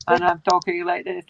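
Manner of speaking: flat mechanical robot voice. Shown as a demonstration. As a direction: talk like a robot. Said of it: "like a robot".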